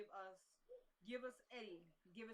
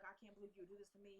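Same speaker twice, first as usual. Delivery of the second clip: mock sweet and sad; 5 dB quieter than usual. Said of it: "like, real sweet and kind of sad".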